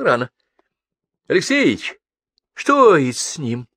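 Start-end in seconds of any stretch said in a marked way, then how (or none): 1.3-3.7 mildly frightened, raised voice. A narrator's reading. Passenger asking his chief what is wrong, frightened. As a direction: ask it higher, with some alarm. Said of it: "послышался испуганный голос Живого".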